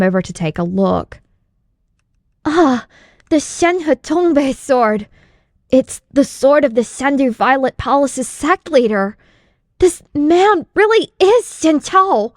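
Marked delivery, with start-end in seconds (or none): 2.4-12.3 excited recognition. Acted. Disciple recognizes the fallen sect leader, excited and higher. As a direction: realize it mid-sentence and climb higher.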